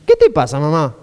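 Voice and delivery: lightly acted telling-off of a mother; mild scolding. Son reproaches his mother, mildly scolding. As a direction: imitate an irritated son's retort. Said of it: "Jesús la está retando a María".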